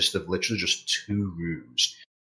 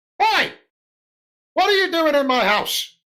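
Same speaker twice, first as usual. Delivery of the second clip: very high-pitched loud shouting; 6 dB louder than usual. Narrating a scene, voicing a man woken by someone in his house, shouting. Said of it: "the man just shouts".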